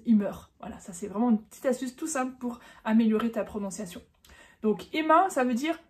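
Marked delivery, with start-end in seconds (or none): 0.1-0.5 "Immer" the French way, ending in "eur"; accent français. Shown as a demonstration. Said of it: "ne dis pas la française". (« Immer » à la française, finale en « eur »)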